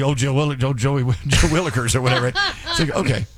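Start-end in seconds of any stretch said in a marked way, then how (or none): 0.0-1.9 laughing mock exclamation. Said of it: "Then she said, basically".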